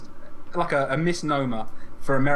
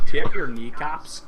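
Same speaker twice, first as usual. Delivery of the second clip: menacing thug; 7 dB louder, slower than usual. Pretend. Playing a Belfast heavy.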